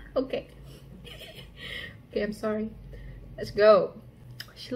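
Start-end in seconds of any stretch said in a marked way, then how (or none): 0.1-0.5 laughing. Real, not acted. Laughing at photo.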